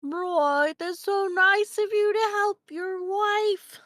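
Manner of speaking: mouth full. Pretend. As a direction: talk around a mouthful of food. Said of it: "say with, like, a half full mouth".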